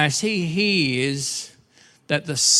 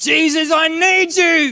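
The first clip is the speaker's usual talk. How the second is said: put-on very high, loud outdoor-style shout; 13 semitones higher, 4 dB louder than usual. Retelling a desperate man calling out to Jesus, retelling a loud shout. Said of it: "He's using his outside voice".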